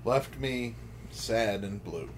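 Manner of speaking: deadpan lyric reading; dry lyric recital. Acted. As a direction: read the song words dryly. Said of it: "read to you".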